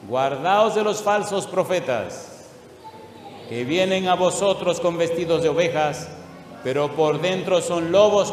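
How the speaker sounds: preacher thundering a warning; forceful warning. Acted. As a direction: warn the flock with force. Preacher reads warning verse forcefully.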